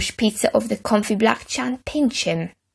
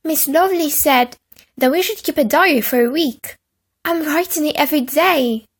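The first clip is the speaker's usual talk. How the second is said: put-on high prim boy; 6 semitones higher than usual. A narrator's reading. Peter boasts.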